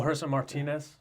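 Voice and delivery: lightly accented pronunciation of Martinez; accented surname. Real, not acted. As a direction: say the name with a slight accent on Martinez. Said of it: "what's up with that accent".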